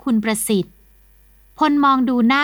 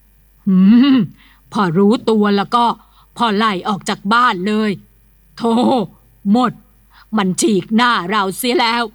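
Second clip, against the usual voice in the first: jaw clenched fury. A narrator's reading. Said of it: "ขบกรามแน่น".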